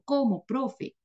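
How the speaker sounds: high, mock-tearful pleading; whiny crying student. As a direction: play a heartbroken student begging the teacher. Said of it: "Llorando y con lágrimas". (alumno lloroso y agudo, llanto fingido)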